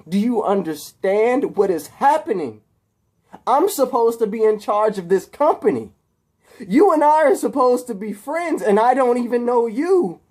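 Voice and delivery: high, loud, desperate rant; agitated outburst. Acted. Harry confronting captive Peter about their friendship, agitated outburst. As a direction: build to a high, pleading shout.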